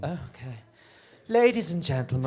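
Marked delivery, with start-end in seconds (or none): 1.3-2.3 announcer. Acted. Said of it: "introduce it".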